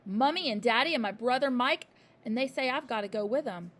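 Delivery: loud upset reply; a girl explaining in distress; upset child. A narrator's reading. Matilda upset.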